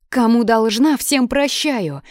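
put-on high, loud girlish squeak; cheeky squeak. A narrator's reading. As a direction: squeak out a defiant retort, drawing out the end. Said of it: "пискнула Соня".

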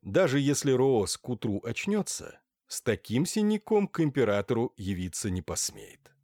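usual speaking voice

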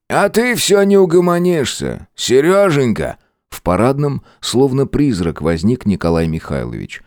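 put-on high, needling old man's voice; sarcastic elderly professor scolding; mocking old professor. A narrator's reading. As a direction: taunt him with sly glee.

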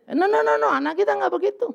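a preacher's sharp denial; emphatic no. Acted. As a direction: wave the idea away firmly. Preacher rejects a wrong idea.

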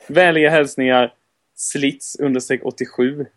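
clear, measured listener-mail read; reading aloud clearly. Real, not acted. Host reading a listener's mail on air, clearly. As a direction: read the email out distinctly. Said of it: "jag läser upp det högt och tydligt".

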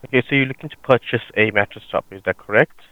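call center agent. Acted. Prank call, plays sales agent.

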